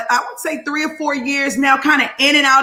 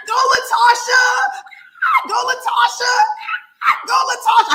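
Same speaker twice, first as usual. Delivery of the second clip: cheer; 10 semitones higher than usual. Real, not acted. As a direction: chant it like a cheerleader. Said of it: "I had to say that three times".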